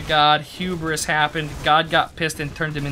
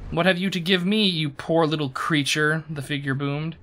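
dramatic fantasy lore narration; story narration; 3 semitones higher than usual. A narrator's reading. Streamer reading game lore to chat, storytelling voice. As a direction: read it as a solemn, expressive storyteller.

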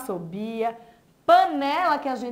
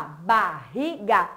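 slow word model; 4 semitones lower, much slower than usual. Shown as a demonstration. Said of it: "Barriga começa com B e termina com A".

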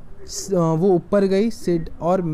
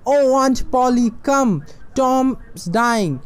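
urgent call; 6 semitones higher, much slower than usual. Acted. Sid rushes calling for help.

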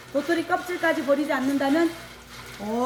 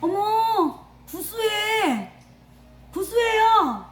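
higher, delighted first taste; surprised delight; 5 semitones higher, much slower than usual. Real, not acted. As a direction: gasp with pleasant surprise. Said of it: "이게 왜 구수하지?".

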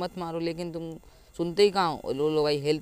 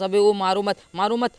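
raised, higher-pitched plea; urgent protest; 4 semitones higher, 7 dB louder than usual. Real, not acted. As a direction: call out in alarm to hold off the attack. Begging attackers not to hit. (घबराई हुई ऊँची आवाज़ में मना करना)

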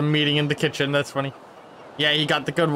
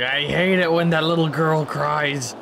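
slightly raised, hammed-up loathing; slow down into hammed-up disgust; mock villain complaint; 3 semitones higher, slower than usual. Player voicing a character who hates crying, mock loathing. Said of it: "He's like".

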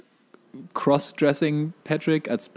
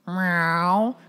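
snail meow; 6 semitones higher than usual. Retold or imitated. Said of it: "wie Gary verhindert".

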